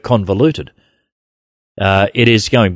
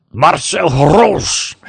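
put-on playful Dutch accent, slow and laughing; 5 semitones higher, much slower than usual. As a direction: drawl the name out in a mock Dutch accent. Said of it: "trying to say that with my Dutch accent".

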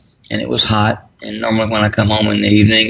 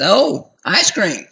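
sarcastic wife; 5 semitones higher than usual. Retold or imitated. Wife teasing about ice cream.

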